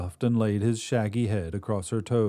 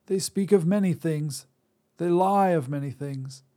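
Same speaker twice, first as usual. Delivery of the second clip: put-on old Drea; 8 semitones higher than usual. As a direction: snap at him like a crotchety crone. Drea dismisses rumours.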